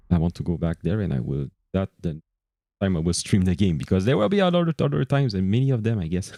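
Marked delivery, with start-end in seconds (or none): 3.8-6.3 crunching chips. Real, not acted. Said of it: "Sorry, I'm eating chips".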